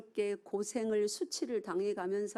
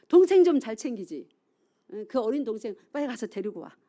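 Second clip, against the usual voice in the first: much louder, then quick; mock nagging parent; 10 dB louder than usual. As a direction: nag the older son to fetch his brother.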